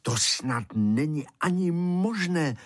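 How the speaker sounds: high, wondering voice; amazed disbelief. A narrator's reading. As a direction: marvel in disbelief, pitched well up. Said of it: "se divili a říkali".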